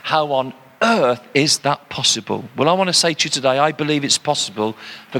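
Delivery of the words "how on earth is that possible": emphatic How on earth, lower-pitched; appropriate emphasis. Shown as a demonstration. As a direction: stress on EARTH, with a small break before it. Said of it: "with the appropriate emphasis".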